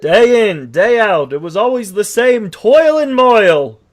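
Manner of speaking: narrating horse, lightly voiced; storytelling horse. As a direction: tell your sad tale as a horse. Horse narrates his tale.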